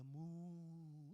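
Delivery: put-on baby moo. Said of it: "el bebé decía".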